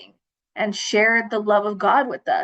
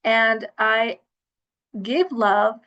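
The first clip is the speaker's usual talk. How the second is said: reciting a mantra. Retold or imitated. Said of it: "I would have this mantra".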